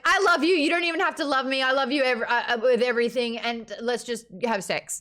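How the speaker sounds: high, loud, breathless lovesick gush; hammed-up lovestruck confession; mock gushing heroine. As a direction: gush it out like a swooning fangirl.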